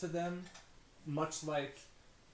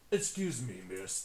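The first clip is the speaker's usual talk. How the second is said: dopey cartoon bellow; 3 semitones lower than usual. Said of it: "the orc speaks up".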